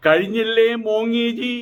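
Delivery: slow, stretched-out taunt. Real, not acted. Political commentator jeers at the beaten leader, taunting. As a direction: draw out the mocking question. Taunting Modi with a mock name.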